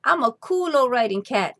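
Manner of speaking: high, coaxing cat voice; smooth cat trying to sound harmless; purring cat. Acted. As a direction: charm the mice out of hiding. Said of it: "Chato purred".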